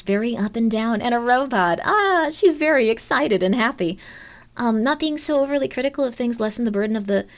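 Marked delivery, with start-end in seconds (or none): 1.8-4.0 Queen voice. Retold or imitated. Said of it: "And then with Queen, it's something like this".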